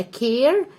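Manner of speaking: "كير" with an ay vowel. Shown as a demonstration. Teacher corrects pupils' reading, ay vowel in "كير". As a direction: say "كير" like care, not car. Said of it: "يبقى هنطق دي إيه".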